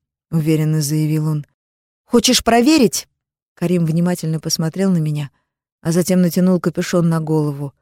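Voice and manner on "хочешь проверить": higher, louder daring retort; defiant challenge to Karim, raised voice. A narrator's reading. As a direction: dare him to call her bluff. Daring Karim to test her.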